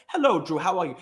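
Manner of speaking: lightly imitated posh English accent. Compulsive liar greeting Drew, mock posh English accent. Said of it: "a really posh English accent".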